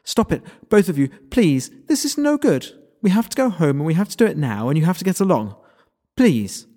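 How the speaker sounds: high, loud pleading voice; high and shrill. A narrator's reading. Lara pleading high and loud with the quarreling pair. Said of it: "voice high and just a little shrill".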